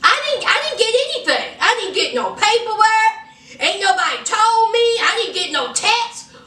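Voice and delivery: hammed-up panicky denial; mock flustered denial. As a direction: sputter out the excuses defensively. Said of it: "He's like".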